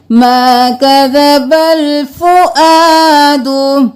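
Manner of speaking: slow, chanted verse with a falling close; Quranic recitation. Shown as a demonstration. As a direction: chant it, drawing every vowel out. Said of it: "recited verse, then explained".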